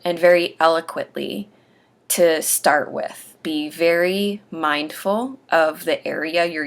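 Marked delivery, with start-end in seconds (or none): 0.0-1.5 slow, deliberate demonstration of careful speech; slow, eloquent. Shown as a demonstration. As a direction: stretch it out slowly and carefully. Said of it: "I do recommend that when you speak".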